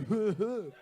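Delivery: forced polite chuckle; a fake laugh to hide the joke; mock fake laugh. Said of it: "They doing that fake laugh".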